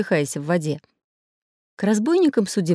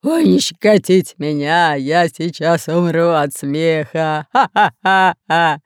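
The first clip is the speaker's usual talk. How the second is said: loud, slow, laughing through words; helpless ticklish laughter; 5 dB louder, much slower than usual. Acted. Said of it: "смеялся рыжий капитан".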